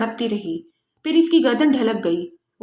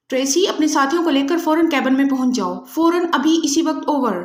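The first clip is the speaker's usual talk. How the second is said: harsh shout. Acted. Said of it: "Julia نے چیختے ہوئے کہا۔ اس نے لہجے کو انتہائی کرخت".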